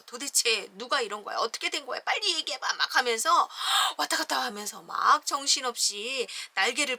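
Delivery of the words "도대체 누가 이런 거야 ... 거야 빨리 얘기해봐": urgent hen. Acted. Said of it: "흔들면서 말해보라고 막 해요".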